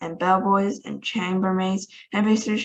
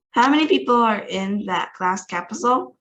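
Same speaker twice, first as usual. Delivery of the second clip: rasping; 2 semitones higher, 3 dB louder than usual. Acted. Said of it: "rasped the President".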